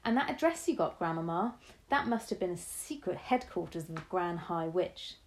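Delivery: a touch of excited grandson; excited boy. Acted. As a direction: grandson eagerly piecing it together. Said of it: "I was getting excited now".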